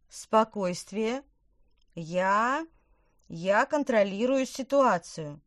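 trembling, slow forced calm; shaky voice. Acted. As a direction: pretend to be in control, voice shaking. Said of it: "дрожащим голосом".

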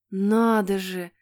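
slow, drawn-out wonder; gasped amazement. Acted. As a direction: marvel at it, stretching the words. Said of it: "ахнул Питер". (изумлённо ахнув, протяжно)

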